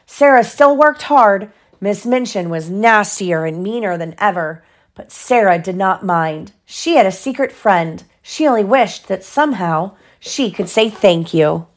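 measured bedtime-story telling; story narration. A narrator's reading. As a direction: clear storybook reading. Reads story to child.

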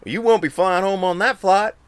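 a hint of a smug mate breaking bad news; knowing mate.

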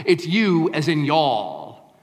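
Southern y'all. Shown as a demonstration. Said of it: "That's how they say it down here".

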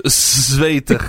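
"zwetig" said as a native Dutch word; Dutch pronunciation. Shown as a demonstration. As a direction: give "zwetig" its Dutch v and long ay. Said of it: "What's sweaty in Dutch?".

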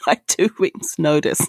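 laughing through the words; giggly. Real, not acted. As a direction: giggle while finishing the line. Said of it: "why am I laughing?".

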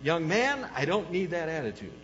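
lightly voiced stern mom; scolding mother. Mother to her young son, mild scolding. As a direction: imitate a mother's reprimand, mildly. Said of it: "my mother would, uh, say something to me like".

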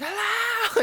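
high-pitched mock scream; imitated scream. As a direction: wail it high like a panicked captive. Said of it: "she's screaming out".

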